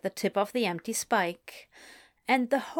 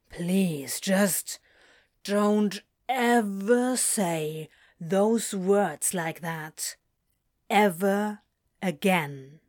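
pained pleading; much slower than usual. Acted. Crowley pleading, appalled.

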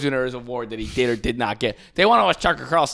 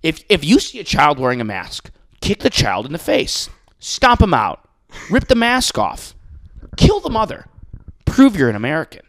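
mock pundit rant; 4 dB louder than usual. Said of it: "He's like".

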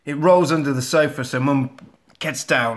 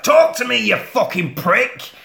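shouting at doll; 5 semitones higher than usual. Retold or imitated. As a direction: yell it, then drag the insult. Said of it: "she shouts at it".

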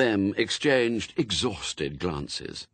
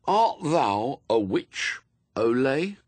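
slow, higher-pitched, solemn interrogation; mock inquisitor; 6 semitones higher, 3 dB louder, slower than usual. A narrator's reading. Chief Inquisitor formally questions the suspect, mock-solemn. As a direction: intone it like a child playing inquisitor.

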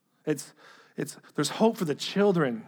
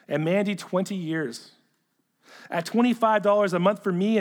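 firm, projected reading of a letter; letter read aloud; 3 semitones higher, 4 dB louder than usual. Acted. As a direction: read it out to the room, measured and emphatic.

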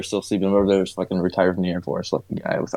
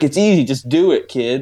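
higher, louder mock little girl; a bossy four-year-old voice, pitched up; imitating the niece; 5 semitones higher, 4 dB louder than usual. Uncle imitating his niece calling him kid, higher mock child. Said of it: "she's like".

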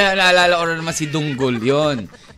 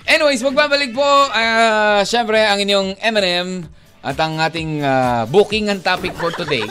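radio host sign-off. Acted. Radio host segment outro.

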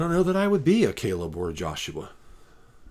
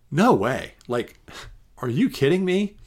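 incredulous; 4 semitones higher, 4 dB louder than usual. Real, not acted. Rejects the angry-God claim.

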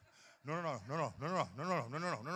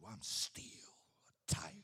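whispered, dropping low; hushed punchline; 12 semitones lower, 4 dB quieter than usual. Acted. Preacher to the men, a low whispered boast. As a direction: lean in and breathe it.

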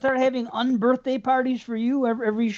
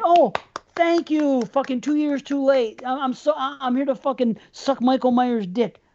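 mock grateful fan; 4 semitones higher than usual. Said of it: "with fucking shit-eating grins and say".

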